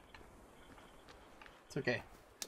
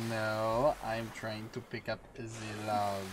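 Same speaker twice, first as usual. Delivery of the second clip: a quick mock French accent, lightly put on; 5 semitones lower than usual. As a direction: toss it off in a jokey French accent. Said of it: "I said that in the French as-, ac-, accent".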